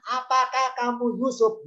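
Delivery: high, drawn-out condescending question; disrespectful question. Acted. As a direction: ask it slowly as if pulling rank. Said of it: "ini intonasi apakah itu bukan dengan cara, cara hormat".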